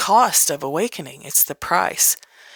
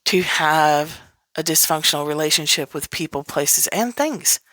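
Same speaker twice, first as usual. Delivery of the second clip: dawning realization; 3 semitones lower than usual. Retold or imitated. Person realizing their life is a mess, low dawning realization. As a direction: mutter it to yourself as it dawns. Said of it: "and going".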